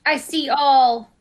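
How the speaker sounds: epic narrator voice. Acted. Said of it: "repeat everything you say in a semi-epic, weird voice".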